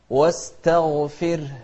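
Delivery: واستغفره chanted with a thin t and full gh; heavy ghayn, light ta. Shown as a demonstration. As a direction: keep the ت light, thicken the غ in واستغفره. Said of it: "شوف الغين المفخمة".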